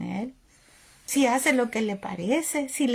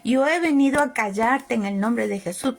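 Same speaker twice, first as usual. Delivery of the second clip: stern calm rebuke; 4 semitones lower than usual. Retold or imitated. Pastor rebukes the demon.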